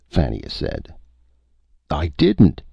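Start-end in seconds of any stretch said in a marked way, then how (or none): 1.9-2.6 higher, louder protest; indignant denial, pitched up. A narrator's reading. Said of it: "Donnaught protested".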